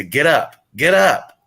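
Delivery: imitating dad's wake-up call. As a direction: imitate a dad rousing the kids, lifting the second call. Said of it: "He would, like, pop our toes and say".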